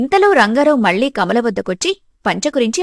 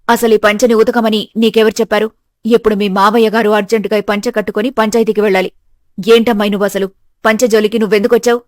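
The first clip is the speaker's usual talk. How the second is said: mother-in-law, scolding; 2 semitones lower, 4 dB louder than usual. Acted.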